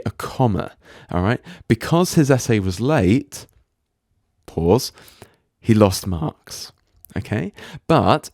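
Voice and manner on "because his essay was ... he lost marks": a held pause between "late" and "he lost marks". Shown as a demonstration. Teacher showing where the comma pause falls. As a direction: stop dead after the clause, then finish.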